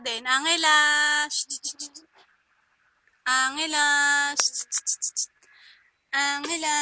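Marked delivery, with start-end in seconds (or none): 4.3-5.3 unvoiced soothing shh; hushing. Real, not acted. Hushing baby.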